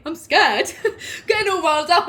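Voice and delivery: loud, laughing through the words; nervous laughing. Real, not acted. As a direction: giggle it out, all wound up. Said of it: "I need to calm down".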